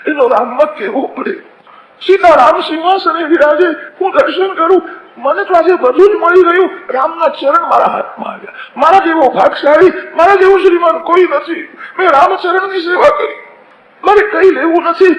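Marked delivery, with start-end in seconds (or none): 2.0-11.7 overwhelmed joyful cry. Acted. Boatman overjoyed at serving Ram. 12.0-13.4 tearful cry of joy. Acted. Boatman weeping with joy. 14.0-15.1 overwhelmed joyful cry. Acted. Boatman overjoyed at serving Ram.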